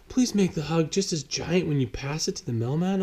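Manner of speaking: a hint of an earnest little boy; young Owen.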